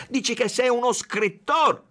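broken Spanish-Italian, shouted; furious shout. A narrator's reading. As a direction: bellow it in his face. Chief shoving, shouting accusations.

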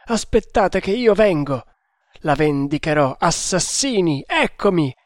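agitated raving, voice climbing in bursts; delirious alarm. Acted. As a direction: drive off imagined assassins, frantic. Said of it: "gli occhi stralunati".

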